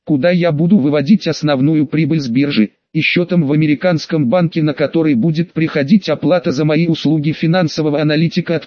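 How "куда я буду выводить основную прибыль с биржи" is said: ordinary delivery, nothing marked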